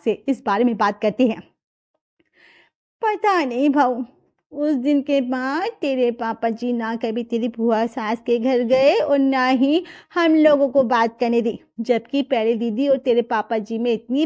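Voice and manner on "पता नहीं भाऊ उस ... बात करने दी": put-on slow older mother-in-law. Mother-in-law explaining to daughter-in-law: slow, lightly voiced older woman. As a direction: drawl it out gently like a tired mother-in-law.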